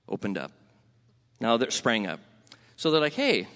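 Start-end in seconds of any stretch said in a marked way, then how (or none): 3.1-3.5 pirate sailor. Acted. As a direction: play a jolly pirate with a big "arr". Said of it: "can I stay with the pirate thing".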